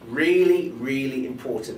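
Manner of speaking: deliberate pause, then weighted "really", falling away; pausing for emphasis. Shown as a demonstration. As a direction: set off "really, really important" with pauses. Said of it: "The last one is pausing".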